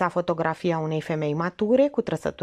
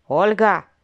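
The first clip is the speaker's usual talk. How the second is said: rebuke; 2 semitones higher, 6 dB louder than usual. Acted. Aunt rebukes niece.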